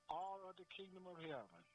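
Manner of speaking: "all" held long and high, then a falling finish; stress on ALL. Real, not acted. Preacher insisting on all, not some, stressing "all". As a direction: hit "all" and stretch it.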